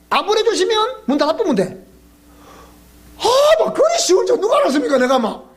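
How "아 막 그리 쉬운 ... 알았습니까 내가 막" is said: exclaiming. Real, not acted. Preacher exclaims to congregation.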